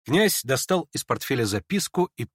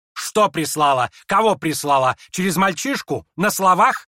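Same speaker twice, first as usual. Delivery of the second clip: higher, louder rapid questions; excited exclamation; 6 semitones higher, 7 dB louder than usual. Acted. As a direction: fire questions at him. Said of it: "воскликнула она вдруг опять".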